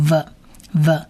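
"v" as a drawn-out v with a short vowel; v sound demonstrated. Shown as a demonstration. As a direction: sound out "v" slowly for learners. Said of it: "它发v的音". (慢慢示范“v”的发音，带短元音)

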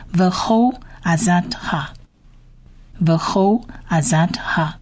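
"The whole azadha" as slow, separated Hebrew words; slow phrase demonstration. Shown as a demonstration. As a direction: model "The whole azadha" with pauses between words. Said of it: "意思就是以及你全部的筹算". (逐词慢速示范“The whole azadha”)

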